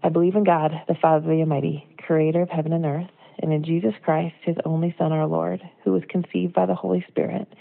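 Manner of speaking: measured liturgical recitation; creed recitation. Acted. Reciting the Apostles' Creed to the church, liturgical cadence. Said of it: "this is the whole thing".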